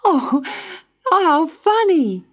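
put-on high, loud little-girl delight; amused, unafraid. A narrator's reading. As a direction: exclaim brightly without any fear. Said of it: "not a bit frightened".

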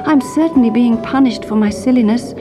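high, rueful lament; sorry and shivering, miles from home; regretful princess. A narrator's reading. Princess lamenting, cold and lost.

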